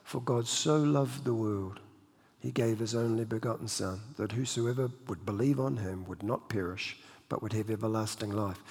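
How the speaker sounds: quietly voiced divine voice; a hint of a soft inner voice speaking; low, hushed reading of the verse; voice from God. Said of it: "And the voice said".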